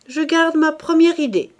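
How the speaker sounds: triumphant. Acted. Enchanted husband declares.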